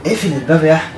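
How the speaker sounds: loud, high faked wail; high-pitched mock-crying insistence; pretend crying. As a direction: wail the plea with put-on tears. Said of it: "أنت بتعيط ليه؟".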